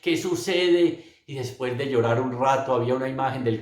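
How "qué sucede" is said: higher-pitched, mildly anguished pleading; retold anguished questioning. Retelling his nights crying alone on the floor, mildly anguished. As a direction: imitate desperate questions, insistent but without sobbing. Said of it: "lloraba y me revolcaba y decía".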